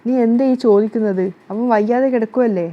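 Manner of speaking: mild angry rebuke; angry scolding. Acted. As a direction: scold her, a touch heated. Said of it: "ദേഷ്യത്തോടു കൂടി". (ചെറിയ ദേഷ്യത്തോടെ ശകാരം)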